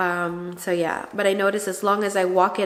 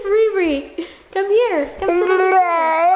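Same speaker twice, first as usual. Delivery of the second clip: calling out; 9 semitones higher, 5 dB louder than usual. Real, not acted. Calling the child.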